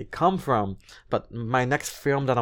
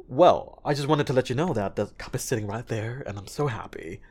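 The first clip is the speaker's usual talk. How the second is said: TV role. Shown as a demonstration. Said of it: "let's say I'm doing a T V role".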